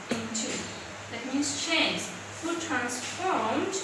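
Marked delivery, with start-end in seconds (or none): 2.4-3.7 slow emphatic reading. Shown as a demonstration. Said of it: "slow model reading".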